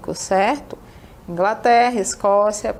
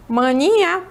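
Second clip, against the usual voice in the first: northern local; 7 semitones higher, 3 dB louder than usual. Retold or imitated. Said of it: "A gente sempre fala".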